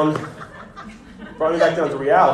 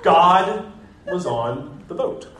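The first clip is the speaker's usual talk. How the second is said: mock annoyed toddler; 3 semitones higher, much slower than usual. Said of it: "what he calls me when he's really annoyed".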